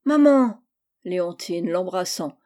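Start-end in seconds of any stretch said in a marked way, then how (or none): 0.1-0.6 put-on loud, high whiny cry of a child; whimpering. A narrator's reading. Gisèle, scolded by Tocambel, calls her mother in a loud whiny cry. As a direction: wail for her mother like a sulking little girl. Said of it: "Gisèle pleurnichant".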